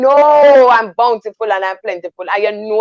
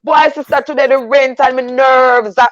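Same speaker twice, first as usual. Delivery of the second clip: impassioned shout; 6 semitones higher than usual. Real, not acted. To the listeners, urging honest church talk: high impassioned shout. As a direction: belt it out like a preacher pleading for honesty. Urging people to tell truth.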